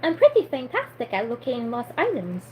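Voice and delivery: light try at a Romanian accent; amateur, tentative Transylvanian voice; attempted Transylvanian accent. Shown as a demonstration. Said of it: "I should try doing a Transylvanian accent".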